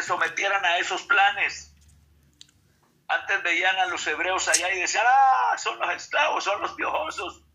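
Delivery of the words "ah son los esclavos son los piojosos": high, sneering mock voice, partly breathy; mocking Egyptians. Egyptians sneering at the Hebrew slaves, high mocking voice. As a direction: scoff at them like a contemptuous master.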